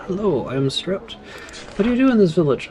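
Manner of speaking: a hint of a nervous servant; lightly voiced, mildly fearful greeting; quivering voice. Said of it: "she says in a quivering voice".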